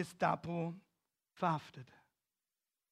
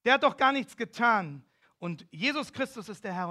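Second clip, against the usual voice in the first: crowd shouting; 3 semitones higher, 6 dB louder than usual. Retold or imitated. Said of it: "Die Leute schrien".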